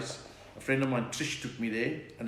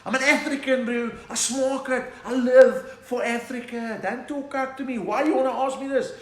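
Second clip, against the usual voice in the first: high, loud mock-indignant son; hammed-up fervent young man; impassioned son; 9 semitones higher, 5 dB louder than usual. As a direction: protest to dad, stretching out the declarations. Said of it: "he's like".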